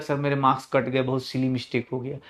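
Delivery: student imitation. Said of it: "वो बोला कि".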